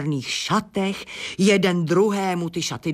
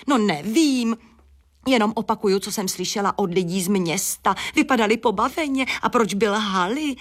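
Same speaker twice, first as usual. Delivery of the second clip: hen, pitched up, chirpy and sure; higher eager hen voice; 4 semitones higher than usual. Acted. Hen insists to the bat, voice pitched higher. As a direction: talk up high like a chatty hen.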